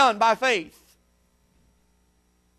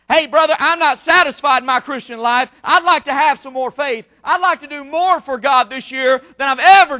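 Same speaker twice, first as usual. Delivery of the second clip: forceful, insistent pulpit declaration; fervent preaching; 4 dB louder than usual. Real, not acted. Preacher declaring he wants more for God, fervent preaching. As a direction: drive it home to the congregation.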